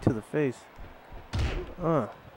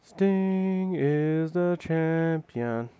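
announcer voice; 5 semitones higher, much slower than usual. Pretend. Drawn-out announcer call.

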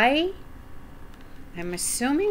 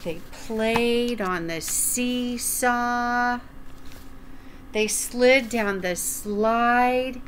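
gentle storytime narration; reading to children. Acted. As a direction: read it like storytime for little ones. Reading a picture book aloud.

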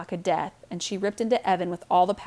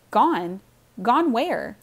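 shrieking; 4 semitones higher, 5 dB louder, much slower than usual. Acted. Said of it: "Jessie was shrieking now".

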